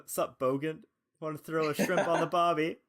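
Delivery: hammed-up Aussie bloke greeting; lightly put-on Aussie accent; mock Australian accent. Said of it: "Jerry walks in and says".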